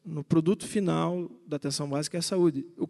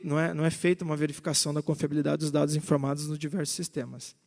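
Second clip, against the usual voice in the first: rushing; faster than usual. Real, not acted. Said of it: "eu peço desculpa pela pressa".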